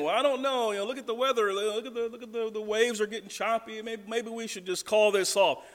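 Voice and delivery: mock hesitant fisherman eyeing the weather; fretful disciples. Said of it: "you can imagine they're saying".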